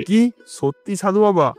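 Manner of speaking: astonished king; surprised. Acted. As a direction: jump up in joyful disbelief. King hears he'll have child.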